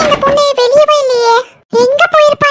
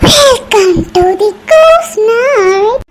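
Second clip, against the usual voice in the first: slow, drawn-out spooky welcome; otherworldly, very slow announcement; eerie intro; much slower than usual. Acted. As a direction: stretch it out like a ghost host. Eerie ghost-night intro.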